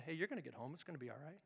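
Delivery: very soft, gentle divine voice; barely above a breath, reassuring; hushed voice of the Lord; still small voice. Acted.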